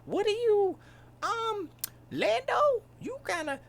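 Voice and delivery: mock high wookiee voice; Chewbacca reply. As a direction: squeak like a wookiee.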